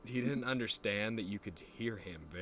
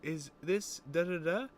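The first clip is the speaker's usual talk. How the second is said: phone caller; 8 semitones higher than usual. Pretend.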